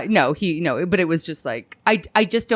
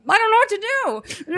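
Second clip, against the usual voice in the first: much higher, put-on helpless little voice; mock helpless; 12 semitones higher than usual. Telling a friend, imitating her own awkward helpless high voice. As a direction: squeak it out as if lost. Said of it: "It's more like".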